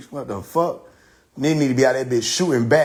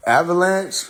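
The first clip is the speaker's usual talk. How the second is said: slow, laughing stretch; amused stretched word; laughing drawl; 5 semitones higher than usual. Real, not acted. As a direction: draw it out through a laugh.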